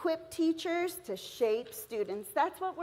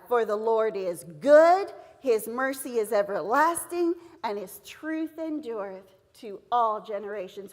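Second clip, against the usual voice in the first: scripture reading; 3 semitones lower, 5 dB louder than usual. Shown as a demonstration. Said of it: "say the three blue words with me".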